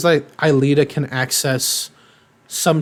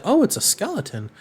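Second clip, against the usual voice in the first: high mock innocence; 7 semitones higher, 4 dB quieter than usual. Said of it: "he's just like".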